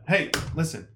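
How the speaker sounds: Navi voice. Pretend. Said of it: "All right, Navi".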